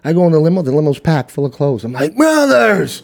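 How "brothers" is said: high, stretched-out mock holler; hammed-up high cry of protest; retold exasperated call. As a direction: call out to your pals in disbelief. Calls out friends over taken clothes.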